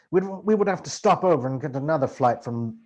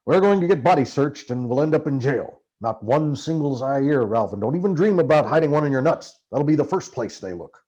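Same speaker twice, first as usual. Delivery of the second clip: louder, urgent Hunter warning; Hunter's voice, urgent; 5 dB louder than usual. Acted. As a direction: press the danger on him as Hunter.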